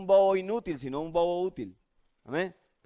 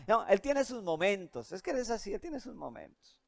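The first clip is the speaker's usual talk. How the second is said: acted soft, unbothered excuse; hushed, easygoing reassurance; tranquil mother; 9 dB quieter than usual. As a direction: play a patient mom quietly excusing her child. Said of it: "ella está tranquila".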